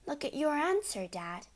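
a light, gentle nudge. Acted. Matilda gently urges her father to check his answer. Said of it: "Matilda said gently".

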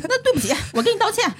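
sing-song fake apology through laughter; mock apology. Mocking boss apology again.

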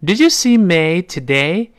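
slow question rising at the end; teacher model read; slow model sentence. Shown as a demonstration. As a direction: read it slowly with a rising finish. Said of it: "这么一个声音啊".

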